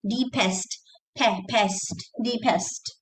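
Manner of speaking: "deepest" with a crisp P; clear P. Shown as a demonstration. Teacher drilling students, clear P in "deepest". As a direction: isolate "pe, pest", then "deepest".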